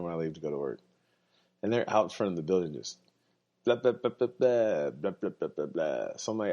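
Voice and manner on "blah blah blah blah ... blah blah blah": lightly voiced rant of shouting strangers; mock yelling gibberish. Imitating homeless people yelling at dawn, mock babble.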